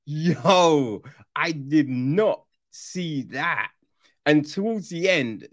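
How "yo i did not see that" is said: slow, stunned disbelief; mock amazement. Viewer admitting a twist fooled him, slow stunned disbelief. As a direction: say it slowly, caught out.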